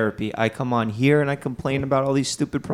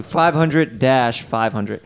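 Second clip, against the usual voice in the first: slow, clear number; much slower than usual. Shown as a demonstration. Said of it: "repeats number slowly".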